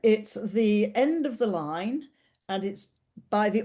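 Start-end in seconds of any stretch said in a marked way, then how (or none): 0.3-2.1 slow, clear repeat. Real, not acted. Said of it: "So just to reiterate then".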